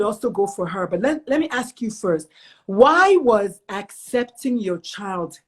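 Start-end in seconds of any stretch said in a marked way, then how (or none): 2.7-5.4 slow, deliberate question. Shown as a demonstration. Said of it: "I want you to hear the question".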